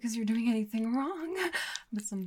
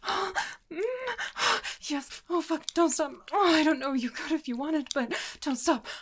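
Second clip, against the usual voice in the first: higher, urgent moaning plea; building climax; 7 semitones higher, 4 dB louder than usual. Acted. Lover urging partner not to stop, urgent and overwhelmed. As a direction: plead urgently, voice pitched up.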